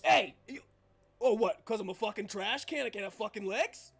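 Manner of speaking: loud, indignant character retort; offended trash can. Acted. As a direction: take offence, starting loud. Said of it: "trash cans ... are talking".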